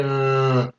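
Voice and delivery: RRR as a long voiced buzz; sounded-out R. Shown as a demonstration. Teacher shows that R vibrates, drawn-out RRR. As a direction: hold the RRR so the throat vibrates. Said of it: "usted pronuncia la R".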